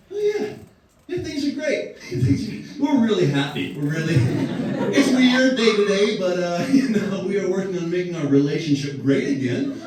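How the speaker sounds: high, brightly fake-happy reassurance with nervous laughs; forced cheerful American abroad. American traveler forcing cheer when asked about Trump. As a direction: put on a strained happy face about a bad relationship. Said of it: "'Cause you'd be like".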